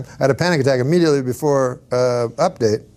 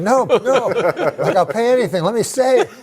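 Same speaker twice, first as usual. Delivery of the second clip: comic begging, pitched up; retold pleading; 9 semitones higher than usual. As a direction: mock-desperate bargaining. Retold pleading with therapist to stay.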